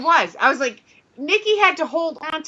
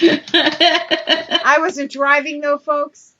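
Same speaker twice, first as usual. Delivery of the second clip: laughing; 3 semitones higher, 4 dB louder, much slower than usual. Real, not acted. Laughing aside to audience.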